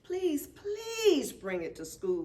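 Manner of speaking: put-on high, slow pleading child; begging. A narrator's reading. Willa begging Amy to bring the dragon, pleading. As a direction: plead with her, drawing it out. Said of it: "begs Willa".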